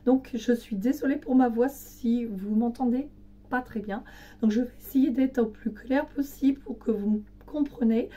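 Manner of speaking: losing her voice, hoarse and strained. Real, not acted. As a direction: speak through a fading, hoarse voice. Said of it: "j'ai une extinction de voix".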